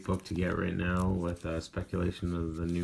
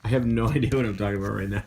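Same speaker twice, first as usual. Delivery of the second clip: laughing; 5 dB louder, much faster than usual. Real, not acted. Punchy late-night giggling at himself.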